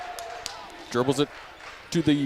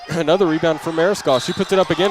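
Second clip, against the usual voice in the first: higher and louder as the scramble builds; building play-by-play excitement; excited call; 3 semitones higher, 5 dB louder than usual. Real, not acted. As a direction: pick up the pace of the call as the chance builds.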